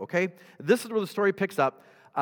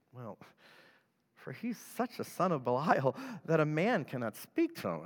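leaning in, hushed; 6 dB quieter than usual. Retold or imitated. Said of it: "I kinda envision these kinda whispering that".

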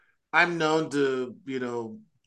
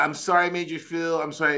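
breezy, louder insincere sorry; fake apology; 4 semitones higher, 5 dB louder than usual. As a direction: toss off a hollow apology.

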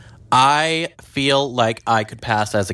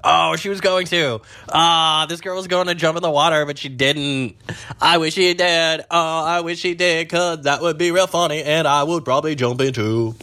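excited gossip; 5 semitones higher than usual. Real, not acted. Excited about girl jumping.

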